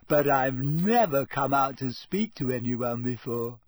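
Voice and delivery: put-on coy, confiding ghost girl; sly. Ghost confides in boy she spies on, sly. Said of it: "said Myrtle rather slyly".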